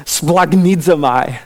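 splagnidzomai said slowly, syllable by syllable; Greek word. Shown as a demonstration. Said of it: "It even sounds like it".

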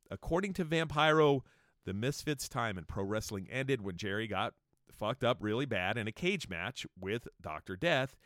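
ordinary talk, nothing marked

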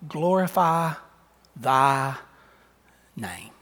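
slow, soft, prayerful voice; a slow, hushed, reverent prayer; hushed prayer quote. Retold or imitated. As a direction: pray it quietly, like Jesus in anguish. Quoting Jesus' prayer softly.

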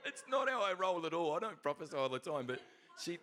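high, loud, through laughter; laughing protest. Real, not acted. Speaker jokes about friend's prophesying remark, laughing protest. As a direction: protest loudly while cracking up.

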